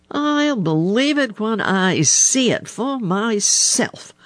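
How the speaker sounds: high-pitched crow's skeptical snap; snapped. A narrator's reading. Blacky the Crow doubting Little Joe, high snappish voice. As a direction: snap it out high, refusing to believe. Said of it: "snapped Blacky the Crow".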